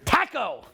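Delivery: "Taco" with a short A as in "tack"; Canadian pronunciation. Shown as a demonstration. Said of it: "That's how we pronounce it in Canada".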